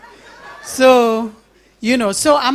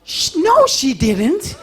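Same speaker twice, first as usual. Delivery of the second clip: laughing disbelief; 5 semitones higher, slower than usual. Retold or imitated. Reacting to street gossip.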